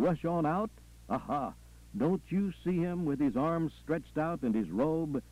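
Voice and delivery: rousing Southern preacher, rhythmic and insistent; preacher, jubilant. Acted. Preacher welcoming Sister Lucy into heaven, jubilant. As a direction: call her home in rolling refrains.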